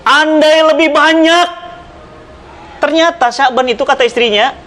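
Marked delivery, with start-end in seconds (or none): 0.0-1.5 slow drawn-out call, higher; dying cry. Acted. Dying man regrets not giving more, slow and drawn-out. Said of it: "Apa teriakannya".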